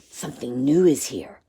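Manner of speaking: low, hushed goblin murmur; whispering goblin. A narrator's reading. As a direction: say it low so it isn't overheard. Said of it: "The goblin whispered".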